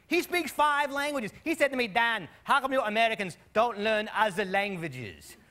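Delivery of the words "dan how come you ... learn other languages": slow, lightly German-voiced question; a hint of German friend Jürgen; mild German accent. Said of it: "Jürgen, from Germany".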